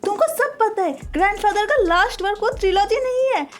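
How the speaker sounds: screaming. A narrator's reading. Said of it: "चीखते हुए बोलने लगते हैं".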